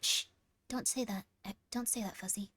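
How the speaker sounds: hushed unvoiced warning; whisper. Real, not acted. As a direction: shush them in a whisper. Whispered hush.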